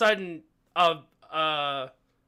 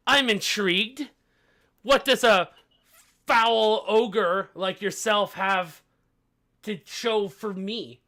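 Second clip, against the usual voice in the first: raised-pitch, drawn-out regal condescension; haughty queen; 4 semitones higher, 4 dB louder than usual. Acted. Queen questioning a foul ogre's offer, lightly haughty. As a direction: size up a lowly challenger.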